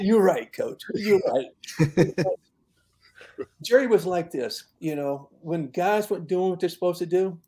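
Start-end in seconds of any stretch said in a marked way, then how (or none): 0.0-2.3 laughing. Retold or imitated. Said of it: "he started laughing".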